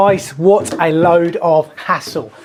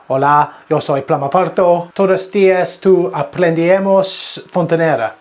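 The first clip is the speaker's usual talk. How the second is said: lightly put-on Spanish, hamming the words; mock Spanish. Plumber guessing his Spanish intro, mock Spanish accent. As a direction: half-jokingly guess at the Spanish. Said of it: "gonna be something like".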